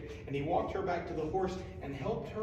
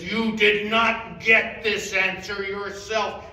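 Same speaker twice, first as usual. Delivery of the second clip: trembling knight; 3 semitones higher, 9 dB louder, slower than usual. Acted. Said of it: "began to tremble and said".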